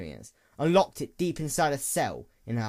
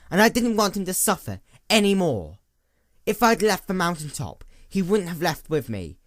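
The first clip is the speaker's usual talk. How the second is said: louder, higher, rising anguish; anguished outburst; 5 semitones higher, 5 dB louder than usual. A narrator's reading. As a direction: let the pain push the voice up. Twintail's mounting anguished outburst.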